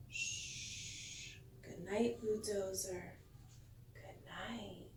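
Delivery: soft whispered shh and goodnight; tucking in a sleepy truck; hushed goodnight. Pretend. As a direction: whisper it as if a child just fell asleep. Bedtime goodnight to toy truck.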